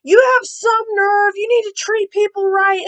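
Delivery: mock principal yelling at a student; retold principal yelling. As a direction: scold like an angry principal, replaying it. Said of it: "heard the principal yelling".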